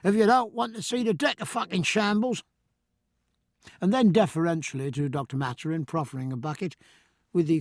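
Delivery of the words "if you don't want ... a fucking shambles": mild wrath. Acted. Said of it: "cried the cook's mate with equal wrath".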